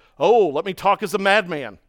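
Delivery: biting, mocking, sarcastic tone. Retelling how a writer starts talking in chapter 11, mock-sarcastic tone. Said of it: "Paul starts doing it this way".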